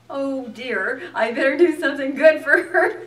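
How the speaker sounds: laughing worry. Retold or imitated. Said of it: "And I was like".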